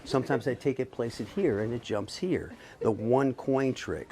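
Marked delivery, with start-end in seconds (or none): 2.8-4.1 slow. Shown as a demonstration. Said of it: "Sometimes I do this real slow".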